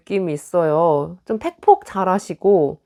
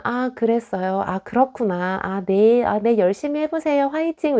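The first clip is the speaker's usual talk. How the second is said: polite brush-off; 3 semitones higher than usual. Retold or imitated. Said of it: "좋게 좋게 넘어가지만".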